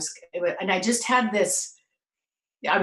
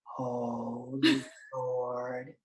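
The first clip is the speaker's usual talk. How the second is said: stunned laughing oath; 6 semitones lower, 9 dB quieter, much slower than usual. Retold or imitated. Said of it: "I'm standing there going".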